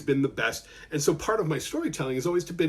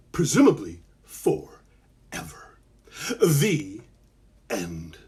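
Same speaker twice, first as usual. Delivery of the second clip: whispered aside; 6 semitones lower, much slower than usual. A narrator's reading.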